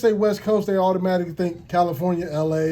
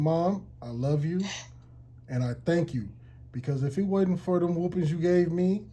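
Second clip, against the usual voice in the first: heartfelt thanks to mom; 4 dB quieter than usual. Retold or imitated.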